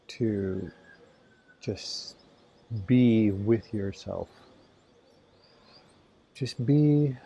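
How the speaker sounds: unhurried phrases with long pauses; calm, spacious meditation lead-in; guided meditation. Acted. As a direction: ease listeners into the morning, leaving space between phrases.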